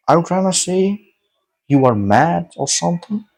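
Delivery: retold disbelief, questions lifting at the end; incredulous challenge. Egg owner to dreamer who says it's a dream, incredulous. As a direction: challenge them as if they were mad.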